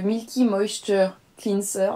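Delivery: slow English product name in a French accent. Real, not acted. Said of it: "désolée pour mon accent anglais". (anglais lent avec l'accent français)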